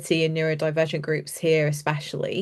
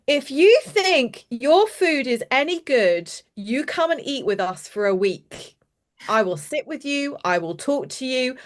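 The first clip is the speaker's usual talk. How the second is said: lightly voiced, hand-on-hip sass; sassy five-year-old; 4 semitones higher than usual. Retelling the girl challenging the catering boss, mild sass. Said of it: "She stands up and she goes".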